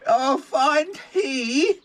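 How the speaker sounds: high, slow mock-posh "fine tea"; pinkies-up tea snob.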